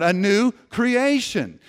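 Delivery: high, loud, slow proclamation. Shown as a demonstration. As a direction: proclaim it loudly, stretching the words. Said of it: "say it out loud".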